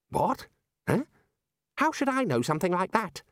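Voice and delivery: flustered disbelief; baffled young wizard. A narrator's reading. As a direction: Ponder thrown by the question. Ponder baffled.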